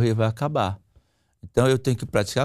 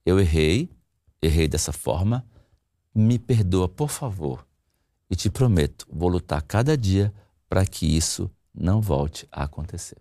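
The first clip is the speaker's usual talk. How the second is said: sincere apology; 6 semitones lower than usual. Shown as a demonstration. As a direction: let each phrase land with pauses. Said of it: "eu vou repetir".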